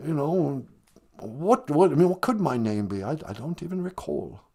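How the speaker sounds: lightly put-on English accent; a hint of a posh British prince; mild English accent as Prince Harry. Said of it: "Prince Harry".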